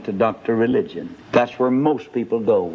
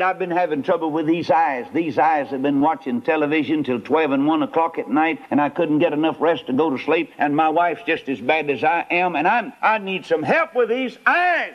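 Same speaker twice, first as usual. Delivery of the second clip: rising complaint; 4 semitones higher than usual. Acted. Sinner listing complaints to doctor.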